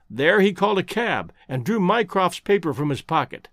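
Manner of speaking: ordinary delivery, nothing marked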